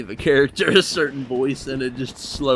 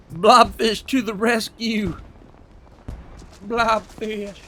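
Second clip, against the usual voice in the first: mock heroic cry; 9 semitones higher, slower than usual.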